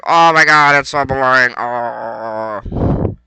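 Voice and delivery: lightly voiced annoyed fan; mocking complainers. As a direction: mimic the whiners who hate grappling. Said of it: "a lot of people are like".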